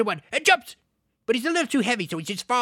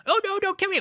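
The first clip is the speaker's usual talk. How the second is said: high, hammed-up terrified goblin; mock pleading; 10 semitones higher, faster than usual. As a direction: beg for mercy in a high goblin whine.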